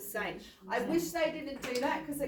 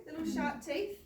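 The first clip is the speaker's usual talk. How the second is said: Kylie Jenner voice; 5 semitones higher, 3 dB quieter than usual. Acted. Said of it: "I'm doing my Kylie Jenner again".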